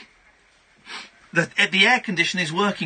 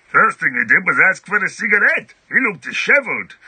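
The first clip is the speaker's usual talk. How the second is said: a lightly voiced witness, louder and livelier; 5 dB louder than usual. Host voicing the quoted witness a touch louder. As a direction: give the bystander a bit of character.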